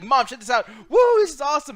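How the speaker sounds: mildly acted excitement; excited kid. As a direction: imitate a kid showing Mom something awesome. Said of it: "you're all excited".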